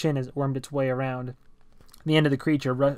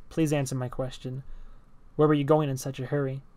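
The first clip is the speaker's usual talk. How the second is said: flat robotic speech; 4 dB quieter than usual. Acted. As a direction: speak like a robot, no inflection. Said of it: "He spoke robotically".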